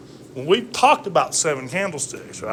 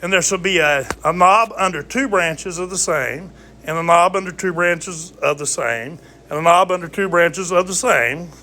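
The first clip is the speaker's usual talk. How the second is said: scripture reading; 2 semitones higher than usual. Acted. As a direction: read the verse like scripture. Reads scripture aloud.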